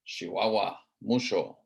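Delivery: Chihuahua and mucho said with sh for ch; northern sh accent. Shown as a demonstration. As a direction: say Chihuahua as shiwawa, mucho as musho. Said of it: "they say sh".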